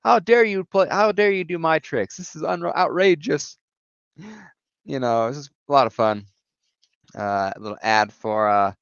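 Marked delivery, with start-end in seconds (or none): 0.0-3.6 much higher, whining cartoon villain protest; a sore-loser villain crying foul; whiny Hobgoblin. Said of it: "is going".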